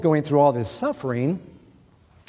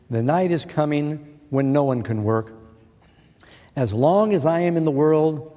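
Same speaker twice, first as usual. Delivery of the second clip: louder, emphatic Bible reading; scripture reading; 4 dB louder than usual. Acted. Preacher reading Jesus's words to the congregation, emphatic scripture reading. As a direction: read the verse out firmly to the congregation. Reads the verse aloud.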